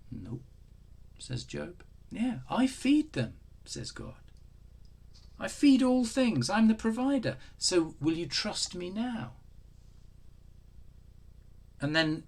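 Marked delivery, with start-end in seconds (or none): 0.1-0.4 soft, much lower, a flat little no; curt reply. Acted. Preacher voicing Job to God, soft and curt. 2.1-3.3 voice of God. Acted. Preacher voicing God to Job. 5.4-9.3 God pressing Job to trust him. Acted. Preacher voicing God to Job, high and booming.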